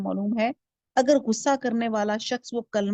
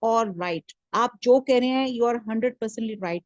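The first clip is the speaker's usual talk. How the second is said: soothing agreement; much slower than usual. Shown as a demonstration. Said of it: "ایسے اس کو، ان کو دو کہ".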